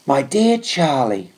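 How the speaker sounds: lightly voiced, slow, hushed letter reading; Trooper reading mother's letter. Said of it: "read it out to me in guarded whispers".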